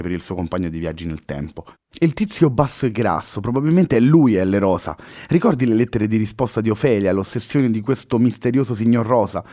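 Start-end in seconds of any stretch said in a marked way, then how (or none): 2.0-9.4 higher, louder eager explaining; she's on the trail now; enthusiastic. Acted. Luna excitedly explains the letters to Henry. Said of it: "continuò entusiasta Luna".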